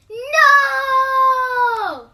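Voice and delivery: put-on piercing high scream of a furious toddler. A narrator's reading. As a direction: scream it like a tantrum. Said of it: "yelled Jace".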